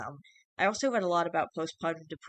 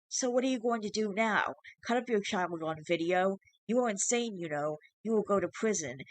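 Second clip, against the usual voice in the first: higher, shrill, mocking creature voice; taunting changeling; 3 semitones higher than usual. Changeling threatening the father with prison, shrill and taunting. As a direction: needle him about prison.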